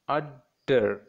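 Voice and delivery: "udder" split as ud-der with a pause; two distinct beats on "udder"; two separate syllables. Shown as a demonstration. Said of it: "two syllables".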